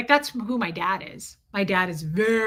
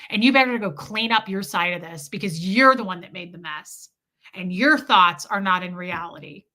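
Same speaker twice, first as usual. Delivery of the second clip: louder, defiant mock husband; ex-husband doubling down on his wife, a bit louder; 4 semitones lower, 4 dB louder than usual. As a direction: push back hard, refusing all blame. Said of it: "He'd double down".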